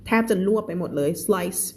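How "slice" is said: slice with the S and L blended, barely any vowel between; teacher showing how to say slice; short first sound. Shown as a demonstration. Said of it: "คำว่าสะ เหลือแค่นิดเดียว".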